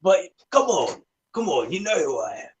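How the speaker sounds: fake Australian accent. Brash Australian greeting his old friend Shorty. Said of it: "the Australian fake accent".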